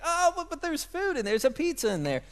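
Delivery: a high, mild mock whine; whiny toddler. Dad imitating his son begging for pizza, mock whine. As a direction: lightly play a crying kid pleading for pizza. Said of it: "he cries and he's like".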